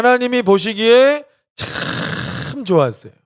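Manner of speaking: high, slow, loud exclamation of delight; preacher marveling aloud; delighted exclaim. Real, not acted. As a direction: savor how good it was.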